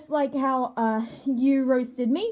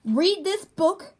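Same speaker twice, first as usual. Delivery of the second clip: slow with pauses; 3 semitones higher, slower than usual. Real, not acted. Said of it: "the pauses, they're really terrible".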